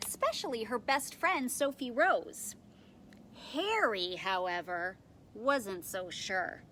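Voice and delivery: put-on animated read-aloud for young children; expressive storytime reading with lightly acted quotes; picture-book narration. A narrator's reading. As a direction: tell it like a picture book, leaning on key words.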